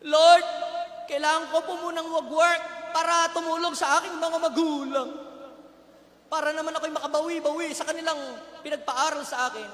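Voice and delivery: a loud cry of "Lord", then an eager plea; loud pleading excuse. Retold or imitated. Grown child making excuses to the Lord, loud plea.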